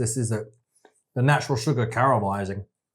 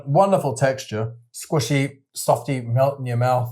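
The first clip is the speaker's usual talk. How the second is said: food reporter style; slower than usual. Pretend. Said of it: "Give us a shokurepo feeling of it".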